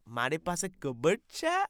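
fast, mock Gujarati question; rapid Gujarati. Host parroting the guest's Gujarati fast. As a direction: parrot it quickly. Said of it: "what the fuck is he saying".

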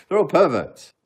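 high, loud mock outrage; mock outraged exclamation. Joking to the chat about spy agencies, high loud mock outrage. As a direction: blurt it out, hamming up the indignation.

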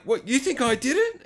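high, put-on girl's voice; mock-offended high voice; indignant girl. Retold girl answers accusing host.

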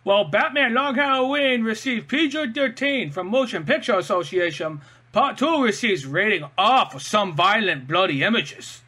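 put-on dopey reading voice; imagined trivia writer's voice. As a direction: read it out like a clueless trivia writer. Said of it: "read it in the voice that I imagine it was written in".

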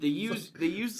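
giggling through the words; laughing. Real, not acted. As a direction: laugh as you talk. Laughing while starting to quote.

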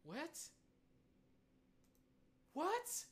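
high, loud outraged shout; shocked shout. Real, not acted. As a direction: scream it in disbelief. Shocked outburst.

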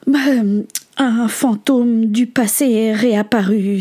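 slow, weary sigh of an answer. Acted. Alice explains her upset to Benjamin, sighing. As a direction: let the words out slowly on a sigh. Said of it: "soupira Alice".

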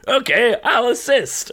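playfully dutiful helper; mock patrol officer. Friend answering players in a mock official voice.

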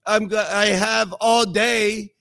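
loud, then slow lazy drawl; mock easygoing shrug; mock lazy Jesus. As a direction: act out a careless, no-hurry Jesus. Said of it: "Jesus isn't saying".

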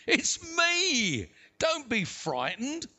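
high, drawn-out reassuring call; calling out reassurance. A narrator's reading. Jesus to the frightened disciples on the boat, calling reassurance. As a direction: call out to calm frightened friends.

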